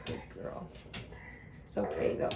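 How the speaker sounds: soft hushed whisper to the dog. Real, not acted. Soothing her barking dog Bindi, whispered. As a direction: breathe it to calm her.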